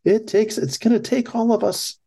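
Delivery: sarcastic high-pitched imitation of a politician; Hillary Clinton impression. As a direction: lift the pitch way up to mock her. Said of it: "Hillary Clinton".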